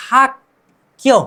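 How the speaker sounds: हक क्यों as "hak... kyo", with a pause between; pronunciation demo. Shown as a demonstration. Teacher joins syllables for learners, pronunciation demo. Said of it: "क्या बोलेंगे?".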